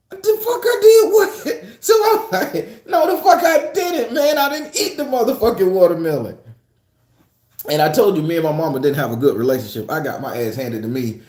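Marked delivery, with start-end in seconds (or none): 0.1-6.4 high, loud laughing protest, much higher; outraged denial. Retold or imitated. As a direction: protest in shocked disbelief while laughing. Young self denying accusation.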